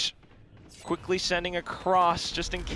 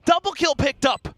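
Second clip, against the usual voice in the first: rising hype call, much higher; excited shout; 10 semitones higher, 4 dB louder than usual. Real, not acted. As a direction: yell the big play like a caster. Caster hype on double kill.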